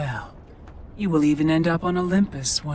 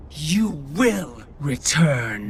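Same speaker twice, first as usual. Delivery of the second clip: menacing command; slower than usual. Acted. Fury commands Kratos.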